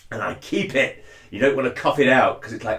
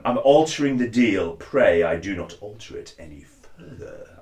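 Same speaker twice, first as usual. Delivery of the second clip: Vader voice. Shown as a demonstration. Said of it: "other phrases that I have written out".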